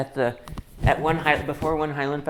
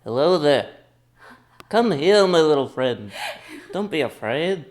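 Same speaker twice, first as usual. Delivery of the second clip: Obi-Wan Kenobi impression. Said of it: "my Obi-Wan Kenobi imita".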